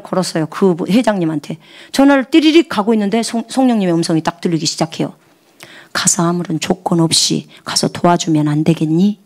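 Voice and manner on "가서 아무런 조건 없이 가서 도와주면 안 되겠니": gentle Holy Spirit voice. Retold or imitated. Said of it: "이렇게 부드럽게 얘기를 하신다니까요".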